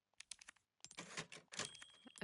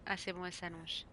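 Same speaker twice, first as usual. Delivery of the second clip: normal talking voice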